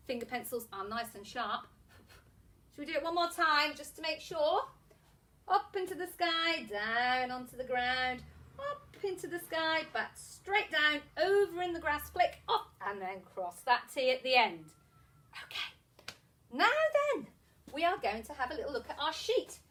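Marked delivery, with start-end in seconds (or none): 5.5-14.6 rhythmic teacher patter with stretched key words; handwriting patter. Shown as a demonstration. Teacher guides young pupils through letter strokes, rhythmic handwriting patter. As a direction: talk a pencil through each stroke. Chants letter formation while demonstrating.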